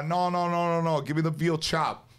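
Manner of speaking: gruff refusal. Retold or imitated. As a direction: brush off the pasta, demand the veal. Old immigrant refusing pasta, ordering steak.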